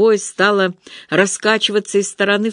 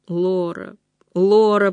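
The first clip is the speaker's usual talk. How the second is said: drawn out; slower than usual. A narrator's reading. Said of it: "протянула Доля".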